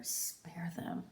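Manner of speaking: soft pleading whisper; whispered prayer to God for her children; whispered plea. Acted. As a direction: beg in a whisper.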